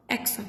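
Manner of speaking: aksa as eksa, ending on the N; French word aksa. Shown as a demonstration. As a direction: clip aksa short before the T. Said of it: "ending the pronunciation here only on N".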